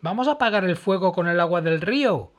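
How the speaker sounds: high, loud call, rushing at the end. Acted. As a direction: shout across the flames to the man. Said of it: "gritó Emma".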